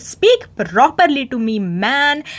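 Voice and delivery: mock-indignant comeback; a touch of acted anger; retold angry retort. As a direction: act out a mildly cross telling-off. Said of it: "she gets angry at Rohit".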